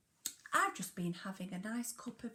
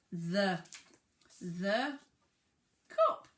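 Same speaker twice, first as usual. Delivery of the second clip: louder, each word punched; emphatic teacher reading; 5 dB louder, slower than usual. Shown as a demonstration. Teacher building the sentence with the class, louder. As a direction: call out each word clearly. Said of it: "What's next?".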